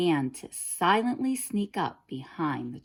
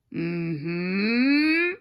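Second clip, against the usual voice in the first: smirked; 5 dB louder than usual. A narrator's reading. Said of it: "the wolf smirked".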